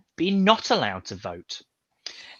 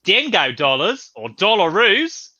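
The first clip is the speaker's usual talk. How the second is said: put-on slow, drawn-out Australian accent; 2 semitones higher, slower than usual. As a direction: say it like an Aussie, slowly. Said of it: "that's my Australian accent for you there".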